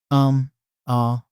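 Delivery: drawn-out hesitant um and ah; hesitant fillers. Shown as a demonstration. Lecturer demonstrating vocal fillers, hesitant um and ah. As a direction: sound unsure, searching for words. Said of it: "and vocal fillers".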